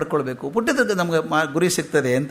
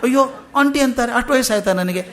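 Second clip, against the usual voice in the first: mock dismay; 4 semitones higher than usual. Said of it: "ಎಂಥ ಅನಾಹುತ ಆಗ್ತದೆ ಗೊತ್ತಾ ಮನಸ್ಸಿಗೆ".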